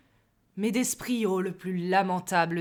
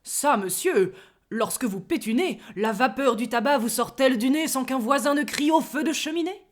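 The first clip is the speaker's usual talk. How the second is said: louder, coarse and colourful; truculent; 4 semitones higher, 5 dB louder than usual. Acted. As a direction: relish the earthy jibe. (truculent et gouailleur)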